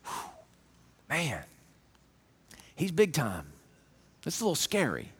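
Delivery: low, soft, awestruck murmur; soft low awe; awed hush. Retold or imitated. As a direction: breathe it out in awe. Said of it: "you just kinda go".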